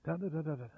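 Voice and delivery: quick, quiet nonsense babbling of da; nervous babble. Shown as a demonstration. Preacher mocking nervous chatter with quiet babble. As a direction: babble like a scared talker. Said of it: "They just talk like that".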